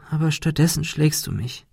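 hohe, weinerliche Stimme; weinerlich klagend. A narrator's reading. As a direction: jammernd wie ein hilfloses Kind. Monika klagt. (Monika klagt Ben weinerlich an)

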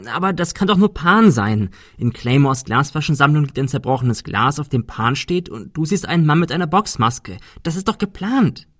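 worked-up disbelief; excited insistence. Acted. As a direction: press the theory urgently, rising to the end. Insisting on his theory against doubt.

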